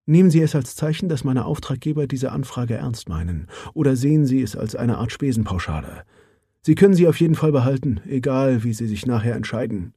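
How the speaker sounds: lightly voiced businesslike woman; Mara Johansson. Mara offers money. (sachliche Frauenstimme, leicht angehoben)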